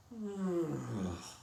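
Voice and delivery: a low, drawn-out groan of fear and disbelief; low fearful sound.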